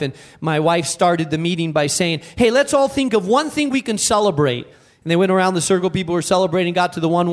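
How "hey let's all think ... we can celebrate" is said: bright, upbeat call to the group; rally the room cheerfully; cheerful invitation. Retold or imitated. Wife's upbeat opening.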